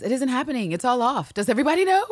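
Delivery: high-pitched, worked-up acted confession; theatrically upset, voice rising high; agitated outburst. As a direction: pitch it up, climbing to an alarmed question. John reveals it's all off.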